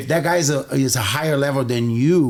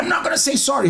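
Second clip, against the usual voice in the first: very high-pitched mock protest; retold refusal; 12 semitones higher, much faster than usual. Pinned bully to the man on top, defiant. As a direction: imitate a defiant loser in a high voice.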